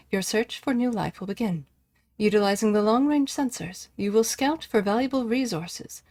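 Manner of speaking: even, measured computer announcer read; automated voice. Acted. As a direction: read it like a machine briefing. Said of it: "I sound like an automated voice there".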